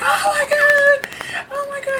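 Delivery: high-pitched yell while crying. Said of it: "She's crying. She's yelling".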